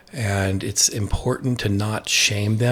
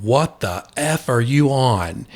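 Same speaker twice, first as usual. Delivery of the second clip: blunt friend; 4 semitones higher, 3 dB louder, slower than usual. Retold or imitated. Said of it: "my best friend called me back and he said".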